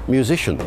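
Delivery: musician said as myoo-ZISH-un, three syllables; musician as modern myoo-ZISH-un; modern pronunciation. Shown as a demonstration. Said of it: "later still, it became".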